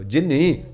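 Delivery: ਜਿਨੀ as jinhi, with H after the N; aspirated reading. Shown as a demonstration. Preacher correcting the word's meaning, ਜਿਨੀ with an H. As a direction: say ਜਿਨੀ with a soft H before the last vowel. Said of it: "ਪੈਰ 'ਚ ਹਾ".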